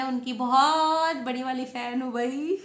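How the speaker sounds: "बहुत" stretched out long; gushing emphasis. Real, not acted. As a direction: draw out "बहुत" like a devoted fan. Gushing about her favourite teacher.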